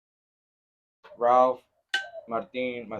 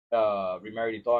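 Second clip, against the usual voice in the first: normal talking voice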